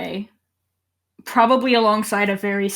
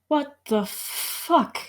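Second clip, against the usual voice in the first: slow, hushed, raised pitch; stunned disbelief; 6 semitones higher, 5 dB quieter, much slower than usual. Acted. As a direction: draw it out softly, stunned. Character faces his own corpse.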